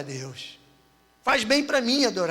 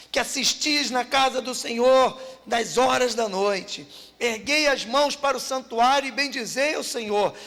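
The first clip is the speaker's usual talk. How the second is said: scripture reading. Acted. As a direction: proclaim the psalm to the congregation. Reads psalm aloud.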